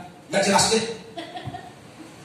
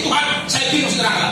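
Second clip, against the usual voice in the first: hurried defiance; 5 semitones higher, much faster than usual. Retold or imitated. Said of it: "sampai saya pernah mau pilih".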